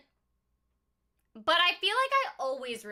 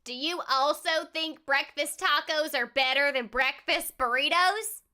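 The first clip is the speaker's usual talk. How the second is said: put-on mild country accent. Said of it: "I will speak in a country accent for you".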